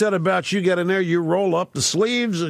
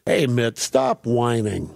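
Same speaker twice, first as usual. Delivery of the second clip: tough admonishment; 8 semitones lower, slower than usual. Acted. Acts out tough advice to Romney.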